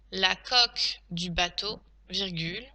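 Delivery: spaced-out words with a rising end; measured teacher's dictation; dictation pace. Shown as a demonstration. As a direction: dictate carefully for pupils writing. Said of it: "Passons maintenant à la dictée".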